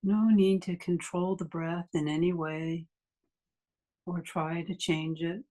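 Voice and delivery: unhurried meditation guide with long pauses; guided meditation. Acted. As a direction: ease listeners into stillness, leaving long silences between phrases.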